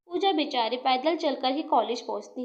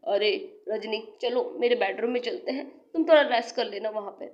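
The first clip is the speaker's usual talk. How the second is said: lower, oily coaxing voice; low sly young man; 4 semitones lower than usual. Acted. Gagan luring dizzy Rajni to his bedroom, low and sly.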